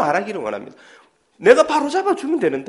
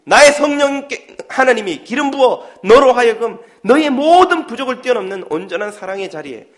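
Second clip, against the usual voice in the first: God's voice; 3 semitones higher, 3 dB louder than usual. Acted. God's voice encouraging believers.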